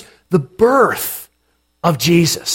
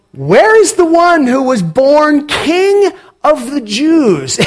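higher, louder, calling out the question; voicing the Magi; 7 semitones higher, 4 dB louder than usual. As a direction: ask it like a wondering traveller. Magi's question read aloud.

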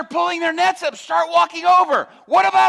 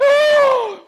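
gleeful, louder, laughing; excited laughing shout; 6 semitones higher, 5 dB louder, slower than usual. Retold or imitated. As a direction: crow over the catch. Peter delighted at catch.

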